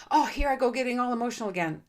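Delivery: fast, exasperated self-criticism; mock self-scolding. Shown as a demonstration. Mocking the self-scolding voice, fast and exasperated. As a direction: roll your eyes at yourself. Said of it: "You know, like".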